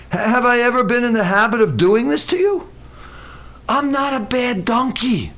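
mildly wounded donkey, reasoning with its master; pleading donkey. Acted. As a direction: plead your loyalty as an old companion. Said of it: "And the donkey says".

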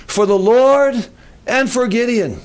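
rallying cry with drawn-out key words; battle cry. Acted. Gideon tells his men what to shout, measured battle cry. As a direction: call it out slowly to the troops, leaning on LORD. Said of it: "here's what I want you to shout".

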